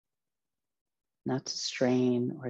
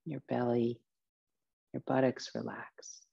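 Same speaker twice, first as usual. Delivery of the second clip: guided meditation. Acted. Teacher relaxing listeners from feet upward, guided meditation voice. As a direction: ease each body part into rest, phrase by phrase.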